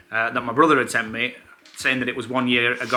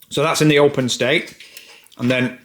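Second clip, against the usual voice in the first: talking while chewing nuts. Real, not acted. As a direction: speak through a mouthful. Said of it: "Sounds like you're chewing on some nuts".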